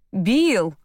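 pleading cry. A narrator's reading. Mother begs father at the table, loud pleading call. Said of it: "взмолилась мама".

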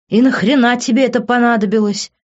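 выше и громче, в недоумении; не понимая, зачем; недоумённо. A narrator's reading. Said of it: "недоумённо спросил он". (недоумённый вопрос другу)

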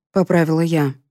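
plain reading voice

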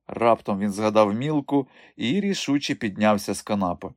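ordinary delivery

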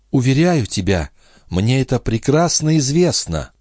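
put-on young wife, hurt. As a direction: accuse him gently. Lorenza, higher.

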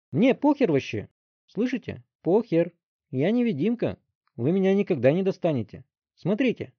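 put-on high, loud wild boy's shouting; defiant yell. A narrator's reading. Teen taunting the chief from the back seat, defiant yell. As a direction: shout it like an untouchable brat.

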